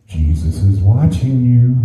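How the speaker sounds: slow, drawn-out warning; lightly voiced, slow mystery voice; mysterious warning. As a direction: stretch it out like an eerie warning. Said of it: "in a soft voice".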